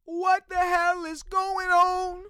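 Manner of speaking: high, slow, drawn-out outraged yell; exasperated shout. Real, not acted. Podcaster yelling at the Texans in outrage. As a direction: bellow it in disbelief. Ranting about the Texans' collapse.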